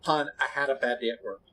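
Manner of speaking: imitating a partner explaining calmly; mildly subdued, retold confession; calmed down. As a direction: tell it gently, as a retold quote. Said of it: "has to calm down and tell me".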